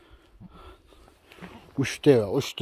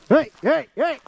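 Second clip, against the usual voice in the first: hollering to the animals, pitched way up; calling out; 13 semitones higher, slower than usual. Real, not acted. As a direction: call the flock from far away. Shepherd calling out across mountain.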